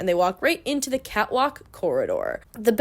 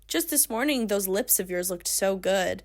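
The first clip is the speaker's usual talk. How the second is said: softened, lightly flirty compliment; coy pretend admiration; mock flirting; 5 dB quieter than usual. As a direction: imitate a smooth come-on, quietly. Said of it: "like, flirting with her".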